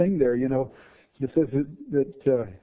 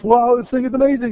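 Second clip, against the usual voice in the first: mock awe; 12 semitones higher, 10 dB louder, faster than usual.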